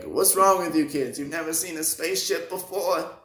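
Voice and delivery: a loose put-on old driver voice; mock grumpy old man; Stan Lee impression. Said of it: "That's not how Stan Lee talks".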